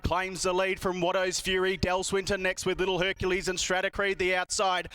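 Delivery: live race call building to excited finish; race caller. Acted. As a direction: call the race, climbing in pitch to the line.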